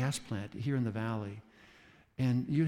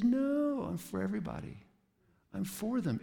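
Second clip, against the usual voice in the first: God insisting; 9 semitones higher than usual. Retold or imitated. God answers the exclusive church.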